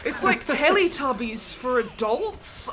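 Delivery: high, loud, laughing through the words. Real, not acted. Recalling a baffling British sketch to the stream, laughing hard. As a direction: giggle helplessly while explaining.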